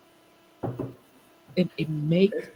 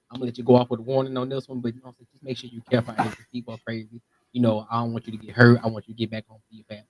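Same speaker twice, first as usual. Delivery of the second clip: friendly cop; 6 semitones lower, faster than usual. Retold or imitated. Reassuring cop voiced in story.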